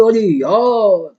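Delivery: teacher imitating a confused pupil; mock student complaint. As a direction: play a lightly voiced overwhelmed student. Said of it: "और बोलो".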